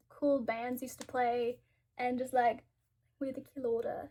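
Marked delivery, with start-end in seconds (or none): 3.2-4.1 put-on British accent. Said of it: "It's not my best accent either".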